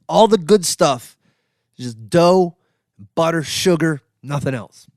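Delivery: each item set apart with pauses; emphatic, deliberate list, punching each item; overly emphatic. Real, not acted. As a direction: lay it down like a firm personal creed. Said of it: "I said that way too emphatically".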